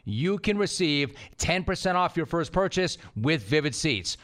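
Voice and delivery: smooth, upbeat sponsor read; podcast host reading a sponsor spot. Acted. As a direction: sell the tickets like a friendly host.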